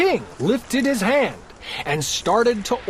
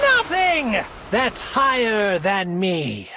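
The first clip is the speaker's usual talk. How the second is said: lightly voiced proud king; 4 semitones higher than usual. Yertle ranting.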